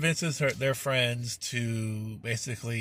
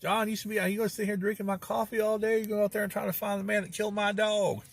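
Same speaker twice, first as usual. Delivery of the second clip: put-on old country man voice; 10 semitones higher than usual. Stu scolding the officer.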